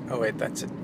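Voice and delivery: hushed, breathy bird-call imitation; turkey impression. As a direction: whisper it like a sneaky turkey. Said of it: "That's my turkey impression".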